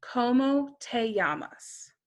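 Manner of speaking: "¿Cómo te llamas?" slowly, with "llamas" said "yamas"; slow careful Spanish question; slow model repeat. Shown as a demonstration. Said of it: "that's pronounced kind of funny".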